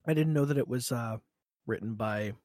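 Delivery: talking through a mouthful of food; words round a bite, mouth full. Real, not acted. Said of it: "my mouth is full".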